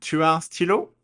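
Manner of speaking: stylo with rising tune, high and loud. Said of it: "Repeat after me again".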